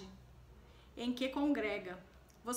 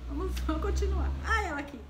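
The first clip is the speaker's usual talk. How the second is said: nervous laughter; 7 semitones higher, 7 dB louder, faster than usual. Real, not acted. Spider still on her.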